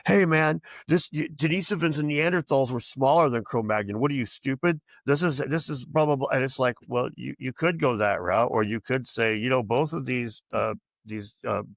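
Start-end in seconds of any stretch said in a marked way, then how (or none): 0.1-6.3 condescending scoffing. Retold or imitated. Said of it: "But they're like".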